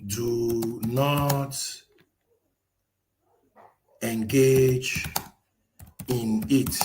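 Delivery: slow, deliberate dictating voice; slow dictation. Acted. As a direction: spell the prompt out word by word. Dictating a prompt to the AI.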